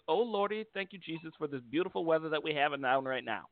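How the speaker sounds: a hint of a grateful granny praising Jesus; praising old lady. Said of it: "and says".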